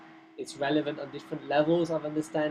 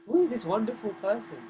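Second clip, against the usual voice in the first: higher, swooping questions of wonder; intrigued; 7 semitones higher than usual. Retold or imitated. Friends wondering about the visiting demigoddess, intrigued. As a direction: wonder aloud who this stranger is. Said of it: "they're really intrigued".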